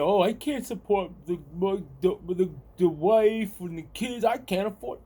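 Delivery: imitating guys who moan about money; mild mocking whine of a complainer; mock complaining. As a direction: stammer out a mock excuse, lightly put on. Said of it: "yelling, ... like a lot of these guys".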